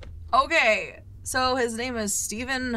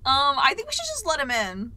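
mom voice, louder and higher; motherly mom voice; 5 semitones higher, 4 dB louder than usual. Pretend. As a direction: speak like a caring mom. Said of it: "I sound like a mom".

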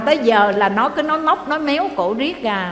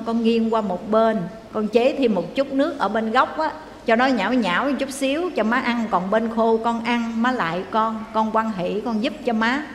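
kneeling plea. Retold or imitated. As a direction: plead gently, bowing to her. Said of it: "Bữa đó cổ quỳ, cổ lại".

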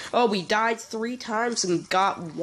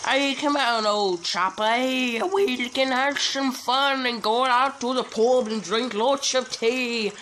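posh British gent; 3 semitones higher than usual. Acted. Gamer hamming up an English gent to his rival. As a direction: play a jolly old chap offering tea.

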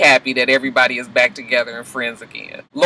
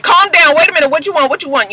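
high, urgent calming; nurse Maggie; 12 semitones higher, 4 dB louder, faster than usual. Retold or imitated. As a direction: soothe a panicking patient fast. Maggie calming panicking Laurel.

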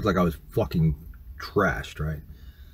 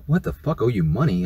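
retold higher-pitched indignant question; indignant disbelief; 3 semitones higher than usual. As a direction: replay being taken aback by a demand. Retold argument over money demand.

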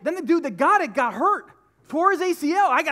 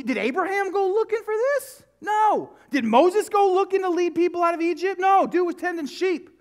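rising preaching fervor; 7 semitones higher, 3 dB louder than usual. Acted. Rhetorical questions building.

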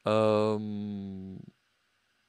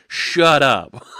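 real burst of laughter; loud high laughing retort; 8 semitones higher, 13 dB louder than usual. Real, not acted. Laughs at a chat joke.

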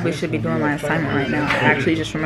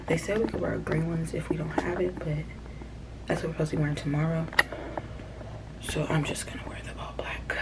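whispering; 7 dB quieter than usual. Real, not acted. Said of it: "I'm whispering 'cause".

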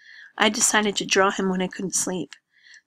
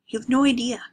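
louder and higher, cutting in; raised, hurt voice; outburst; 4 semitones higher, 4 dB louder than usual. Acted. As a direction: snap the words out. Andrews's emotional outburst.

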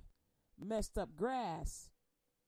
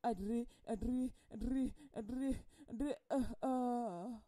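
mock speaking in tongues. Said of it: "you go".

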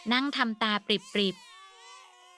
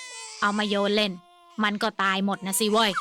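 loud groan. Acted. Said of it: "นิกรครางขึ้นดังๆ".

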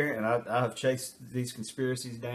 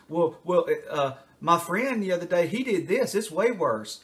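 put-on higher, louder childish protest; deflecting kid; 5 semitones higher, 3 dB louder than usual. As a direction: point at someone else. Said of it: "anything to deflect".

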